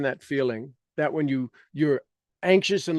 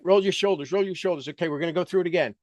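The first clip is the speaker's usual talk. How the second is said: usual speaking voice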